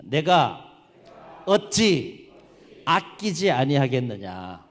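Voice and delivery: loud, deliberate phrases with pauses; call-and-repeat scripture. Shown as a demonstration. Preacher leads congregation in God's words, loud measured declamation. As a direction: proclaim it piece by piece for repeating. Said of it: "한번 따라해 보시겠습니다".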